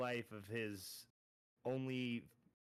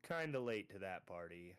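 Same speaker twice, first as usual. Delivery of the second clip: smug. Acted. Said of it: "he kinda smiles again and says".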